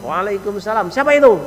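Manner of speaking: curt, high-pitched "who's there"; acted coarse-mannered wife at the door; rude wife. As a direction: answer the greeting brusquely, rising sharply in pitch. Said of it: "bahasanya cewek ini jangan kau wasar".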